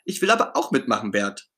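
begging to join in; eager pleading. Acted. Ernie to Bert, eagerly asking to help. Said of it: "schmollt Ernie".

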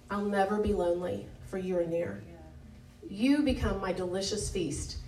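measured, devotional reading of a psalm; scripture reading. Acted. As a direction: read it as a prayer, unhurried. Reads Psalm aloud.

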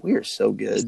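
breathy whisper of mock pride; hushed, smug whisper. Real, not acted. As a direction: whisper it like a secret brag. Self-mocking boast to co-hosts.

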